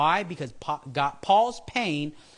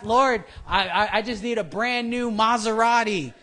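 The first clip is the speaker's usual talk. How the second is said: high, loud whiny plea; mock greedy prayer; 7 semitones higher, 6 dB louder than usual. Mocking people who pray for cars, high and loud. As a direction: beg for the car, hammed-up. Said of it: "people ask".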